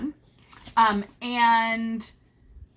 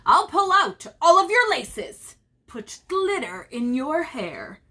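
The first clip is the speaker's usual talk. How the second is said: mischievous leprechaun; 5 dB louder than usual. Acted. Reading leprechaun's boast.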